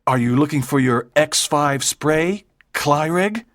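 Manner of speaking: low, even and unhurried; cool and knowing, no rush; calm. A narrator's reading. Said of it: "asked Walter calmly".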